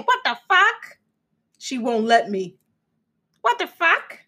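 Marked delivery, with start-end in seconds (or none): 0.0-1.0 sky-high disbelieving what the fuck; shocked high squeal; incredulous. Real, not acted. Disbelief at the excuse. 3.4-4.2 sky-high disbelieving what the fuck; shocked high squeal; incredulous. Real, not acted. Disbelief repeated.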